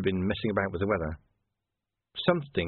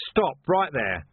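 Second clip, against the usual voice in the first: loud commanding bellow; 5 semitones higher, 4 dB louder, slower than usual. A narrator's reading. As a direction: bellow the order. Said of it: "Vimes bellowed".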